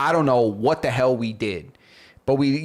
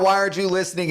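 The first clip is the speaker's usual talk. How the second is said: low volume; 6 semitones higher, much faster than usual. Shown as a demonstration. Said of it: "in three volumes".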